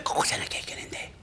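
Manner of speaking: quick hushed whisper, barely voiced. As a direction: hiss it out fast so nobody hears. Crowded seat, muttering aside. (早口のささやき声)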